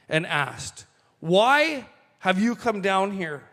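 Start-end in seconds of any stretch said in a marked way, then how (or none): 1.2-3.5 angry brother. Retold or imitated. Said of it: "he burned with anger at him".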